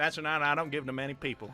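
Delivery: put-on Southern accent with a drawl. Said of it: "your Southern accent is actually really good".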